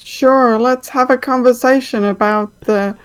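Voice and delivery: mock the question bitterly; sarcastic. NPC mocks logistics question.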